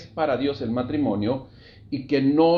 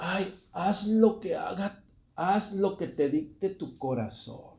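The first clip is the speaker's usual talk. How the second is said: affected, soft, high, holier-than-thou preacher tone; 5 semitones higher, 6 dB quieter than usual. Mimicking a false spiritual leader advising someone considering divorce, in a mock-spiritual preacher tone. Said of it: "Así luego con ese tono, ¿no? Para, como para darle un poquito más de espiritualidad".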